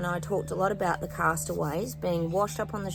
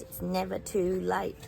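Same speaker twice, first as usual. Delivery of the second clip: slow and deliberate; slower than usual. Real, not acted. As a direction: let it sink in slowly. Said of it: "Remember that, guys".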